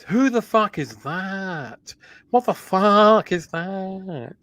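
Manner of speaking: slow, drawn-out celebrity impression, lightly voiced; Gordon Ramsay voice. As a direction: stretch each word out in a light impersonation. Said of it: "I'll do it in a Gordon Ramsay voice".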